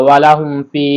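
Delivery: "ফি" with a held i; one-alif stretch. Shown as a demonstration. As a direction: draw out the vowel of "ফি". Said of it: "ইয়া সাকিন এক আলিফ টেনে পড়তে হয়". ("ফি" এক আলিফ টেনে)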